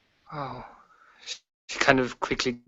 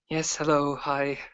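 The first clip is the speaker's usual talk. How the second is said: awkward; 3 semitones higher, slower than usual. Acted. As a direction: greet them awkwardly. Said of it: "as she sits down awkwardly".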